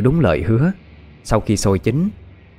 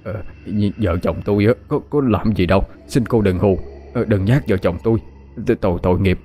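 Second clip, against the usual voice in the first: stammering plea. Acted. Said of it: "miệng lắp bắp".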